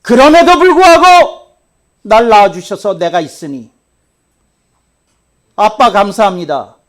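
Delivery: full-force preacher's rebuke; preaching. Acted. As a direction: drive it home from the pulpit.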